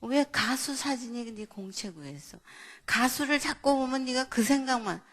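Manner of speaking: mildly angry parent's questioning; retold angry scolding. Mother to child about a singer notebook, mildly angry. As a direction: replay a parent's irritation, rising as it goes. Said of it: "제가 막 화가 나는 거예요".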